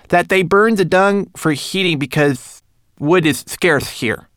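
high, thin little creature voice; a fussy little manikin speaking; homunculus voice. Acted. Narrator voices Twigleg.

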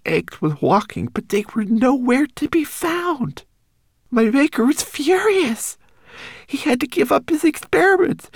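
high, small homunculus voice; a tiny frightened creature warning. Acted.

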